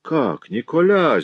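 high, slow, mocking mock-astonishment; drawn-out sarcastic surprise; feigned sarcastic surprise. A narrator's reading. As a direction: act stunned, but sneer it. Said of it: "сделанным удивлением язвительно спросила тыква".

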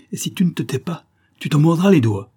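voix plus haute qui monte en force; menace féroce. A narrator's reading. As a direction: gronde la menace jusqu'au bout. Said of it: "répliquai-je férocement". (il menace Mourambal à la gorge, férocement)

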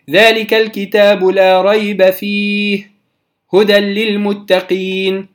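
slow measured recitation; Quran recitation. Shown as a demonstration. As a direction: recite calmly with tajweed. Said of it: "recitation example". (تلاوة هادئة مجودة)

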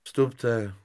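mildly woeful call; a touch of misery, bracing for trouble; plaintive. Acted. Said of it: "řekl poručík Hrubec žalostným hlasem".

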